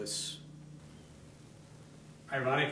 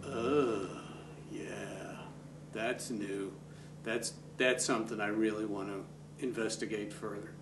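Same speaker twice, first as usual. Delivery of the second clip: musing discovery; 2 semitones lower, 4 dB quieter than usual. Acted. Coach voices an actor finding something new in a monologue, musing. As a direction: think aloud quietly, with pauses between phrases. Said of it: "you go like".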